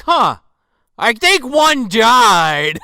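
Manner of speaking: loud, high, drawn-out character voice; mock dim musing. Acting out the man noticing a death, hammed-up musing.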